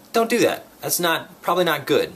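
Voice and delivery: high, lightly voiced warning from mom; quick high-pitched reminder; correcting mom.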